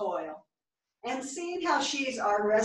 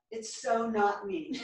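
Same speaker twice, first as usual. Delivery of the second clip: laughing; slower than usual. Acted. Laughing at her own remark.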